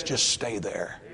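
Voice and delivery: very soft, low reassurance; quietly steady someone who is afraid; hushed gentle counsel. Acted. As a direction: drop right down, almost under the breath. Voicing God's gentle counsel to believers.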